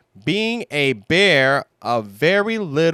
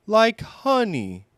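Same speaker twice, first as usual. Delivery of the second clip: Pooh's raised, hopeful guess; 8 semitones higher than usual. Acted. Pooh hoping gold is just like honey, raised and hopeful. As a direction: offer it hoping you're right. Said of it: "Pooh said hopefully".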